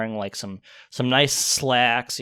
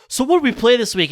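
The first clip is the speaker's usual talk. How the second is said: mimicking himself; 12 semitones higher, 6 dB louder, faster than usual. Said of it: "I'll seriously be like".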